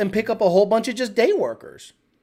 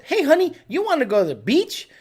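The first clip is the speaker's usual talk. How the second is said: high, perky opening; eager invitation; 6 semitones higher than usual. Retold or imitated. Inviting honey to the beach, perky. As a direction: pitch the outing sweetly and eagerly.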